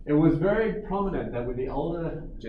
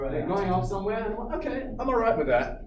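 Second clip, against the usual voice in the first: forced calm; 5 semitones higher than usual. Retold or imitated. Inner voice telling himself fine.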